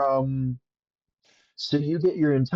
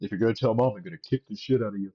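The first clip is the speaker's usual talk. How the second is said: low, fast muttered threat; low quick sibling threat; 5 semitones lower, 3 dB quieter, much faster than usual. Retold or imitated. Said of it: "running Thalos characters is".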